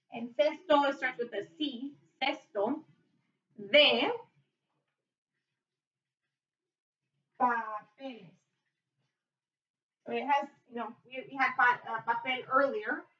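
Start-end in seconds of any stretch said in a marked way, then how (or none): 2.2-8.3 word by word. Shown as a demonstration. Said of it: "So it goes like this".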